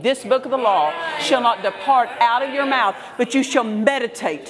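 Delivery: rising, insistent preacher's cadence; preaching. Acted. Pastor preaching to the congregation, fervent and rhythmic. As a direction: drive each phrase home to the congregation.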